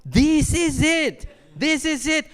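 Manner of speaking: panicked thought. Retold or imitated. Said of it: "and I thought".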